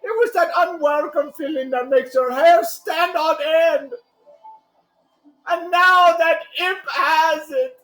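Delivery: high, pleading salesman voice; urgent pleading. Acted. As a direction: beg with rising urgency.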